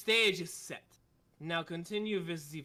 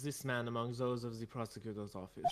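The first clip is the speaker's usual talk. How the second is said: put-on German accent; 7 semitones lower than usual. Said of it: "It's so hard to do the accent".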